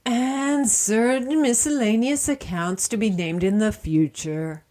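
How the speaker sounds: each word spelled out deliberately. Acted. Repeats it slowly and clearly.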